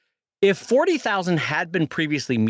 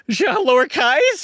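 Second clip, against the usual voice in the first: higher, drawn-out British lowercase, as a question; mock British accent; 8 semitones higher, 4 dB louder, slower than usual. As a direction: play up British vowels on lowercase. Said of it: "you became British there for a minute".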